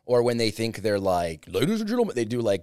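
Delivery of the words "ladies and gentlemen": high booming ring announcer call; wrestling promo. Retold or imitated. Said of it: "either the wrestler voice".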